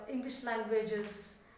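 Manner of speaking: ordinary delivery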